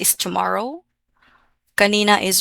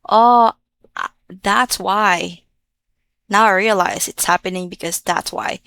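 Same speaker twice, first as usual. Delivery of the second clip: sudden realization; 4 dB louder than usual. Shown as a demonstration. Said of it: "You say".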